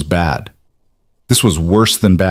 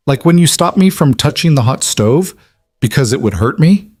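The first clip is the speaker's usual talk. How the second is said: lightly voiced little girl, a little higher; child voice; 6 semitones higher than usual. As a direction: ask innocently like a seven-year-old. Seven-year-old daughter asks innocently.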